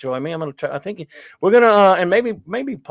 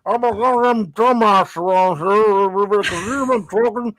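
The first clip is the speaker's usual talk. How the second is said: mocking himself; 3 semitones higher, slower than usual. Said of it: "I can say".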